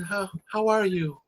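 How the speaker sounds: lightly imitated airy, breathy talk of a baritone saving his voice; airy breathy speaking voice. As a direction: speak on the breath, barely voicing. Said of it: "It's very airy, very, uh, breathy".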